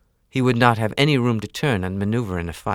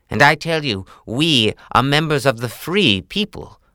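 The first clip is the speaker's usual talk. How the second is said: louder, firm wolf voice; defiant Father Wolf; 5 semitones higher, 5 dB louder than usual. Acted. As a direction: stand up to the tiger, firm. Father Wolf defies the tiger.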